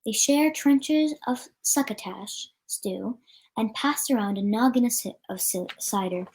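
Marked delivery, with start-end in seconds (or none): none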